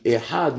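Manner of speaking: "ehad" short, with nothing added to the A; no added vowel. Shown as a demonstration. Teacher showing the proper word, "ehad" without lengthening. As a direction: say "ehad" compactly, vowel not held. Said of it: "nous devons pas rajouter".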